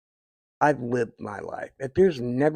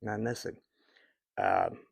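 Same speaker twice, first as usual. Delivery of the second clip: quiet, tearful voice; choking up; 4 dB quieter than usual. Real, not acted. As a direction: fight back real tears softly. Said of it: "sorry, I'm choking up a little bit".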